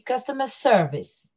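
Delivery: "customer service" with SER leaned on; stress on second word. Shown as a demonstration. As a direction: show the main stress on "service", not "customer". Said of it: "the stress really goes in the second word".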